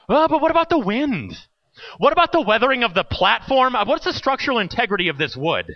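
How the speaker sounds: high-pitched fretting at the start, easing down; mock panic. Scared boy on rappelling tower listing worries, mock panic. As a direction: imitate your own anxious what-abouts.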